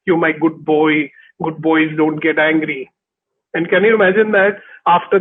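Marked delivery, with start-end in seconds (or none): 0.0-2.9 soft, slow, lower motherly coaxing; soothing mother. Retold or imitated. Mother soothing her upset little boy, soft and slow. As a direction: hush him gently like a mother comforting a child. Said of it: "she comes and holds me and says".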